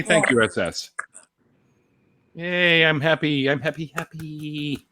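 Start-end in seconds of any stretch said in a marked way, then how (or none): 2.3-4.9 high squeaky gushing voice; Deanna impression. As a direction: gush like a giddy fan. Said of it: "that was an awesome, like, Deanna impression".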